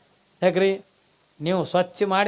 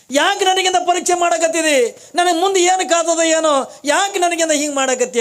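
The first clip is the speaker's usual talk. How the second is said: anguished plea; 9 semitones higher, 4 dB louder than usual. Acted. Wife laments being tested.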